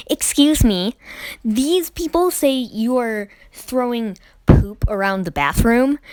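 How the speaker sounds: hint of an accusing Karen teacher. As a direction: lightly mimic an indignant, accusing teacher. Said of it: "that was a Karen".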